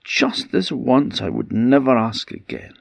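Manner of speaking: high eager begging, quickening at the end; pleading. Acted. Husband begs Niamh to let him go, high pleading. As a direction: promise anything to get your way. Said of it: "he pleaded".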